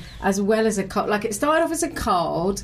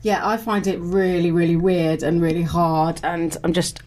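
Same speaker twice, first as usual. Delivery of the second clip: echoey, mic turned the wrong way; big hall echo; 3 semitones lower than usual. Real, not acted. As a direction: sound like you're in a hall. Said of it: "I was wondering why I sounded all echoey".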